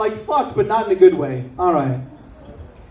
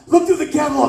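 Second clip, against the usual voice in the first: smoker aunt; 5 semitones higher, faster than usual. Retold or imitated.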